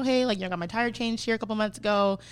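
mildly re-enacted easygoing request; low-key and softening as it goes; calm, casual. Customer politely asking the shop for a tire change, calm. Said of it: "at first I was really calm".

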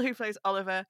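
normal talking voice

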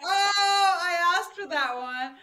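high, loud, laughing through the words; laughing embarrassed. Retold or imitated. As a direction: caught out and giggling at yourself. Embarrassed reply after the naked joke.

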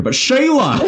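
put-on light Australian accent; a touch of Aussie on the name. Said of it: "doing an Australian accent in my head".

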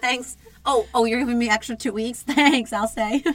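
high, loud playful gratitude; mock delighted acceptance. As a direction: gladly take the offer, loud and high with a laugh. Acts out gladly staying home longer.

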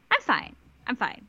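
imitating someone insisting through rising panic; short, halting repeats with pauses between; mock fragile denial, trailing into a stammer; quietly freaking out. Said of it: "very quietly freaking out".

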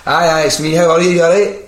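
high, loud, over-familiar phone greeting; blagging it. Retold or imitated. Prank caller blagging he's Gary, high and breezy. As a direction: breezily bluff as someone they know. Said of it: "I'll just blag this one".

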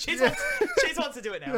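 stifled giggles. Retold or imitated. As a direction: laugh through the words. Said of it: "Chase is like".

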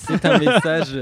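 slow, wooden rehearsed delivery; stiff scripted read. Acted. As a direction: read it like a bad actor. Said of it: "la spontanéité de cette transition était incroyable".

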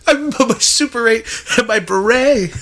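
hammy voice. Pretend. Mock son scene.

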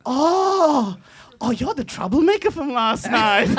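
a light high mock of the girl; imitating her recognizing. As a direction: play her delighted to recognize him. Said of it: "And then she goes".

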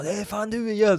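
high, loud mock yell; imiterat skrik. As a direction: shout it across the street in imitation. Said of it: "när de skriker så bara". (härmat högt gällt skrik)

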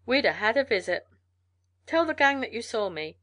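lightly voiced hearty trail man; friendly mail carrier. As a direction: give parting advice with a slight lift. Mail carrier says goodbye.

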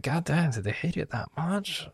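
high-pitched mock-hurt disbelief; retold hurt. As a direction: ask it high, as if wounded. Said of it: "And I was just hurt".

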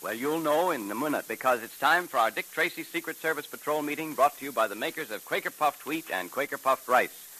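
put-on upbeat old-time radio announcer. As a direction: sell the cliffhanger and cereal. Program announcer.

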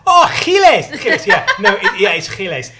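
high, loud, with a laugh; sing-song fluster over his own name; flustered name repeat. Retold or imitated. Flustered spelling name to barista.

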